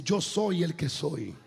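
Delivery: voice of God. Acted. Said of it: "oigo la voz que me dice".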